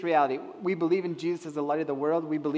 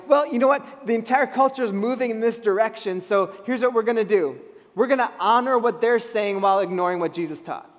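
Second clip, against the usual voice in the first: mock self-justifying church; 3 semitones higher, 6 dB louder than usual. Preacher voices the church's excuse.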